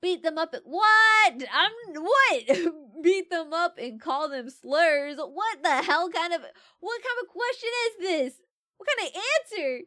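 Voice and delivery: loud, high, stretched disbelief; laughing, loud shocked what; incredulous outrage. Real, not acted. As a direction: cannot believe this quiz option. Outraged at quiz answer.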